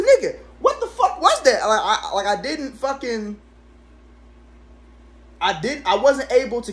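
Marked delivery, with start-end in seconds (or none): 0.0-1.7 startled shout. Retold or imitated. Retelling the shock of the blur.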